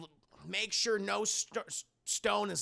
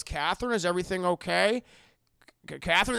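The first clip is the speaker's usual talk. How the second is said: calling out; 5 dB louder, faster than usual. Retold or imitated. Priest calling upstairs to a girl.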